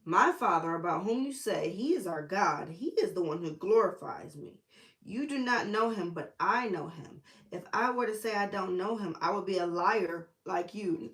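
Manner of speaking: emphatic, punchy verse reading; forceful quoting of scripture; scripture read aloud. Acted. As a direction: declare it with firm conviction.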